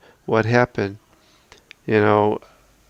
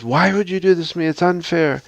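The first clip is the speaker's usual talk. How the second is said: higher, quick aggrieved complaint; acted protest to God; 6 semitones higher than usual. Sufferer questioning God about unfair hardship, mock aggrieved protest. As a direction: plead the injustice in a hurried, raised pitch. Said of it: "a fear or hate of God".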